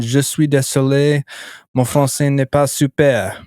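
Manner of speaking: English speaker trying out French; careful learner's French, English accent; foreign accent in French. Retold or imitated. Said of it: "That's pretty good".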